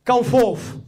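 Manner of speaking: ringing high call of the name, slow and strong; crying out. Acted. Preacher voicing Jesus calling Lazarus from the tomb, ringing cry. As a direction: call the dead man out of the tomb. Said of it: "you hear him cry out".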